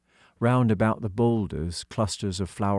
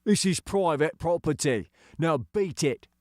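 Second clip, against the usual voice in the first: gruff, dismissive workman; sneering digger driver; 9 semitones higher than usual. Acted. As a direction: sneer the order off the kids. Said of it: "His sneer".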